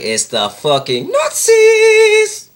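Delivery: high, loud yell stretched out slowly; mock outraged scream. Boss blowing up at her servant, mock outraged scream. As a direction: screech it as the exasperated boss. Boss's outburst in retold parody.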